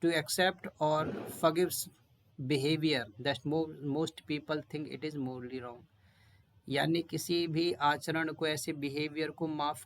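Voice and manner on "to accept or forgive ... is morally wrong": definition read very slowly word by word; very slow classroom reading; slow dictation. Shown as a demonstration. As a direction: dictate the meaning so students can write it. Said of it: "अब इसका mean क्या है?".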